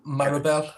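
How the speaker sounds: "Mirabel" said as MURR-uh-bel; "Mirabel" in a Geordie accent, short murmured middle vowel; Geordie pronunciation. Shown as a demonstration. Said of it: "that's how I say it".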